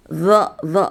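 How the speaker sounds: zo buzzed with the tongue on the upper teeth; buzzing zo, tongue against the teeth; zo drill. Shown as a demonstration. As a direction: repeat zo with a buzzing z.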